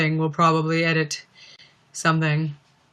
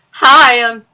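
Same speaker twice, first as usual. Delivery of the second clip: loud, high cracked greeting; imitated voice crack; 4 semitones higher, 11 dB louder than usual. Streamer mimicking Beans' failed outtake, voice cracking. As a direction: burst out high and break off. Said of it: "voice just cracked".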